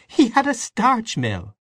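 high, slow amused correction; laughing. A narrator's reading. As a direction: correct him with a touch of laughter, drawn out.

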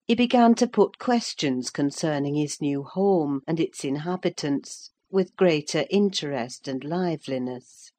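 usual speaking voice

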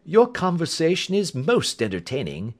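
high, lightly mocking courtesy; amused politeness. A narrator's reading. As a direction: tease him with cheerful politeness. Holmes amused by the insults.

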